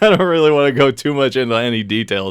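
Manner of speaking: lightly throaty, raspy man's voice. Retold or imitated. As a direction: rasp it out from the throat. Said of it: "more throaty, kinda like raspy voice".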